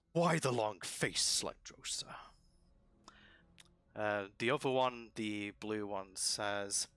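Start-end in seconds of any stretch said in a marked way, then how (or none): 0.1-2.1 lightly voiced lizard creature, drawn out; large lizard. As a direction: stretch it out, a hint of big lizard. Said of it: "large lizard say to the other one".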